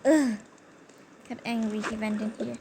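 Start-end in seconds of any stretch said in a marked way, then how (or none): 0.1-0.4 annoyed grunt. Retold or imitated. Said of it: "He was like".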